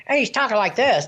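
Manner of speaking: high little character voice; mismatched character voice. Shown as a demonstration. Ventriloquist showing a voice that wouldn't suit the puppet, high voice. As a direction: pitch it up, wrong for a dopey face. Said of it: "looks like Mortimer Snerd".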